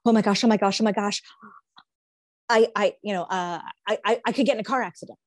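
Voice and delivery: nervous, stammering oh my gosh; anxious panic. Retold or imitated. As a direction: fret about a crash, tripping over words. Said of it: "You could sit there and go".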